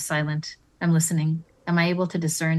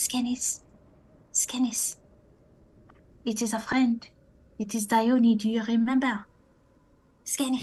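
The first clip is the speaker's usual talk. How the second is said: gentle, reassuring, soft, high calling voice; 7 semitones higher than usual. Approaching the Skinnies so they aren't startled, calling out to them: soft call. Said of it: "I softly call".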